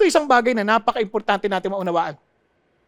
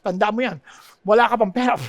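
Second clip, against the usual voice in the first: quick, lightly voiced nagging parent; hammed-up hypocritical parent warning about smoking; mock parent scolding. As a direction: wag a finger like a smoking parent. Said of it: "Yung ba nga sabi".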